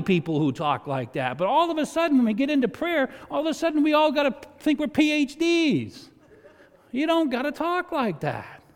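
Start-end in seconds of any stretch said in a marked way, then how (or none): 1.4-8.6 preaching fervor. Real, not acted. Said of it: "preaching against fancy prayer".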